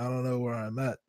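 soft retold mumble; slurred mumbling. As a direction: lightly imitate slurred words. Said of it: "I was slurring all my words".

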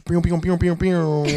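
high, loud laser-gun pew pews; mock laser sound. Host greets the guest with silly laser-gun pews. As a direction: fire off playful zap noises. Host's sound effect intro.

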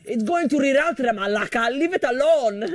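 high, exasperated Greek father; dad impression. Dad telling mom to let it reroute, high mock exasperation. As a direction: insist heatedly in dad's voice. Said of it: "And my dad goes".

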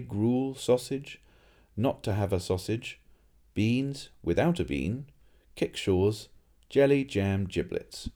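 eager recital. Acted. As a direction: list every dish with delight.

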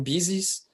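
BUSES said as BIZ-eez, slowly; Scouse word for police. Shown as a demonstration. Telling co-host the local police word, BUSES as BIZ-eez. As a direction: say BUSES like "bizzies". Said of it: "eles falam buses".

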